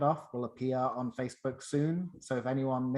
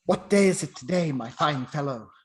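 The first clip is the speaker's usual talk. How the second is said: calling out; 6 dB louder than usual. Acted. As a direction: call out from the window, louder. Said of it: "calls to a boy passing by".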